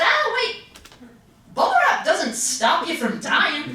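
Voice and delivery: put-on high, startled kid voice; sudden squeaky realisation; a scared toddler's inner voice; childish alarm. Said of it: "my three-year-old brain said".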